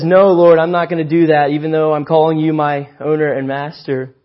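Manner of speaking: loud, insistent no; loud defiant refusal. Retold or imitated. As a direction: bark the refusal back. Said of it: "Peter says".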